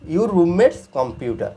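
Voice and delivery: very slow, word by word; slow classroom model; slow demo reading. Shown as a demonstration. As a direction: stretch "your roommate's computer" out for learners. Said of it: "computer".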